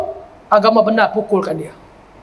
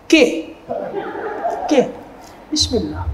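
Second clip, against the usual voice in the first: mock husband; 7 dB quieter than usual. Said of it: "Dia hanya reply".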